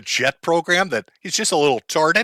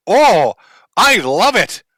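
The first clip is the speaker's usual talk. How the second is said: high, squealy mock mom voice; mocking the mother; 7 semitones higher, 4 dB louder than usual. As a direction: ham up a gushing mother. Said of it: "voices the mother, mock".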